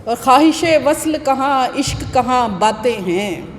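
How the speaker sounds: slow, measured mushaira delivery; Urdu poetry recital. Acted. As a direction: declaim each half-line, then let it hang. Recites her ghazal.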